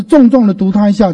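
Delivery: 重重 hit heavily; emphatic weight on 重重; stress on 重重. Shown as a demonstration. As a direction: lean hard on 重重. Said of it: "重读就是重重的读".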